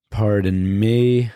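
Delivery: pausing mid-sip of coffee; while sipping a drink. Real, not acted. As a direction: speak right after a swallow of coffee. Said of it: "I'm drinking coffee".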